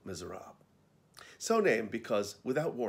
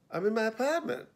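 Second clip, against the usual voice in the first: put-on Boston accent; 12 semitones higher than usual. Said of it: "I said without thinking".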